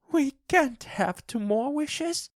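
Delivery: wild hysterical hope; laughing and crying wildly. A narrator's reading. Wife laughing and crying tells husband of the wishes, high. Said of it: "she cried".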